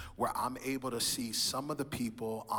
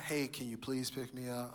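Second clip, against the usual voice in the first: softer, sweet and polite asking; polite request; 6 dB quieter than usual. Retold or imitated. Son politely asking his mom for a ride, soft and sweet. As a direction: ask nicely, like a good son.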